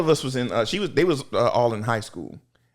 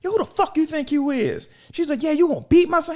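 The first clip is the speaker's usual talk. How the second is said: angry mother; 3 dB louder than usual. Retold or imitated. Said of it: "she was like".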